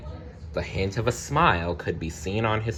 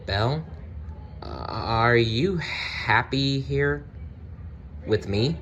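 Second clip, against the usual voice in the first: hesitant, slow beast voice with a catch; stammered; 3 semitones higher than usual. Acted. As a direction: stammer it out shyly, slowly. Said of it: "the beast stammered".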